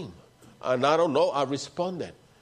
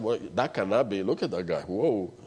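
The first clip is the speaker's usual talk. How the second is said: scornful Satan; 6 semitones lower than usual. Retold or imitated. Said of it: "That's why Satan said".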